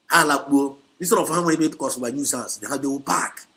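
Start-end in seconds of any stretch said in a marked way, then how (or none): 0.1-0.8 emphatic repeat to listeners; louder repeat. Real, not acted. Phrase repeated, second time louder.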